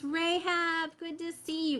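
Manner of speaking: strained, tiring voice; a voice starting to give out; losing her voice. Real, not acted. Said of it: "I'm already losing my voice".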